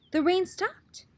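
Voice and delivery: rain stopped, voiced high with wonder; surprised. A narrator's reading. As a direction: sound amazed it stopped. Surprise twist in read-aloud story.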